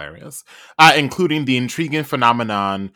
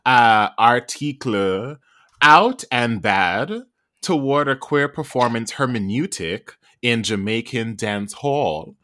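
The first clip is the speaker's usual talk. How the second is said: news anchor voice; 2 semitones higher than usual. Pretend. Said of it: "a different type of C N N, uh, anchor voice".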